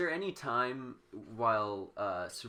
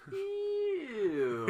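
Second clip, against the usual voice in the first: mock cow's disgust; 3 dB louder than usual. Cows react in comic panel.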